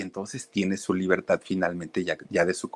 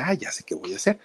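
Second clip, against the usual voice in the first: much higher, eureka moment; sudden bright idea; 12 semitones higher, faster than usual. Retold or imitated. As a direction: jump up in pitch as the idea hits.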